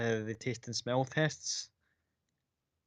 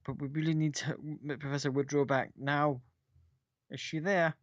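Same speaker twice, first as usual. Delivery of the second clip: insistent guard; 3 semitones higher than usual. Acted. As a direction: insist they need her now. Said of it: "They're kind of like".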